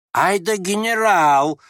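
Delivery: high, drawn-out cheer; loud mock praise. A narrator's reading. Ferdyshchenko applauding the general, cheering loudly. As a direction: stretch out a rousing bravo. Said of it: "похвалил Фердыщенко".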